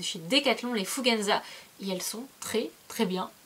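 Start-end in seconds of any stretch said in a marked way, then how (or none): 1.8-3.3 whisper. Real, not acted. Sudden whisper in product praise.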